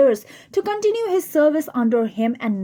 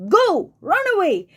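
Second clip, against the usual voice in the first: fiend voice; 7 semitones higher than usual. Acted. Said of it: "says the fiend".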